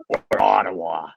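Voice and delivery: slow teasing offer after a long pause; dramatic pause. Retold or imitated. Coach teasing the traded kid, dramatic slow pause. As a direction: hold the pause, then drop Ottawa slowly. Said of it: "He had this dramatic pause".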